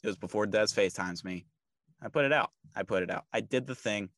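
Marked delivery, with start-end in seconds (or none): 2.0-2.5 first take pushed up higher and louder; emphatic. Real, not acted. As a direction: punch it out proudly. Repeats the line for emphasis.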